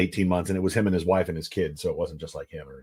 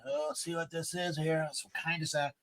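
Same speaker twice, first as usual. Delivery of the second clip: gentle to daughter; 7 semitones higher, 13 dB quieter than usual. Retold or imitated. Gently showing daughter spider.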